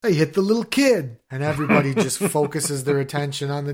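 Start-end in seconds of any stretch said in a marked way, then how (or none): 0.0-1.2 mock German shout. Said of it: "that scene in Beer Fest".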